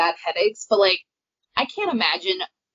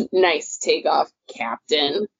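lower, dry mock-sarcastic quote; 4 semitones lower, slower than usual. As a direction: imitate a sarcastic jab at the captain. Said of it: "that is a very sarcastic comment".

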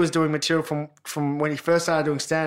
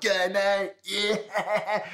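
imitating a broad ocker Australian drawl; mock broad Australian mate-speak; 3 semitones higher, 5 dB quieter, much slower than usual. Imitating a mate's ocker Australian accent on the phone to mum. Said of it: "like really ocker".

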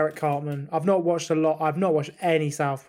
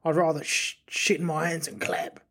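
put-on Australian accent that comes out Cockney; half-landed Australian, mistakable for Cockney; attempted Australian accent. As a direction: have a rough go at an Australian accent. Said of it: "he doesn't have a Cockney accent".

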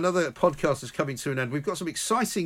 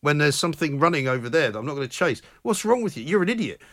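indignant dog voice; 6 semitones higher than usual. Pretend. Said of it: "he'd just look at me like".

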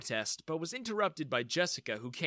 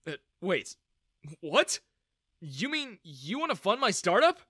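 stunned surprise; 5 semitones higher, 5 dB louder than usual. Acted. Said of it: "My jaw dropped".

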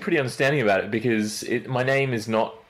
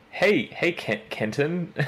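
higher, slowing, tentative attempt at a name; hesitant greeting; 7 semitones higher, much slower than usual. People trying her unfamiliar name, hesitant imitation. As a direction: imitate someone stumbling over a name. Acting out a stumble over name.

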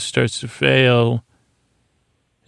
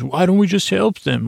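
higher, lightly pushed mock Worf outburst; hint of an aggressive raised voice; 7 semitones higher than usual. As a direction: raise the voice like a gruff Klingon, half-hearted. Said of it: "he raises his voice in an aggressive way".

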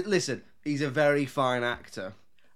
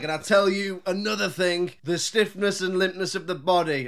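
louder, higher mock speech to a crowd; lightly voiced lecturer; 5 semitones higher, 4 dB louder than usual. Comic imitating a man addressing the crowd, mock oratory. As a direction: hold forth like a know-it-all, lightly.

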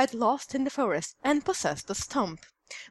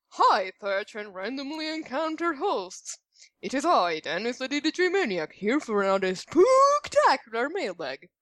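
spooky voice. Acted. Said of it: "It says to read in a spooky voice".

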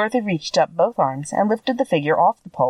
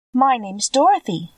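higher, lightly voiced eager girl; young girl voice; 6 semitones higher than usual. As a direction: speak up as a bright little girl.

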